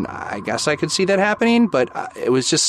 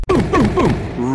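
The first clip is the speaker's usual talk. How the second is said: three high, spaced booms; imitated banging; 8 semitones higher, much slower than usual. Retelling smacks on the wall, imitated banging. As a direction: mimic three separate hard smacks. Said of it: "smacked three times".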